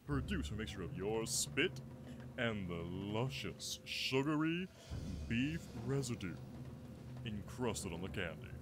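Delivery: dropping to a gross-out murmur; hushed. Pretend. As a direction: whisper the disgusting ingredients.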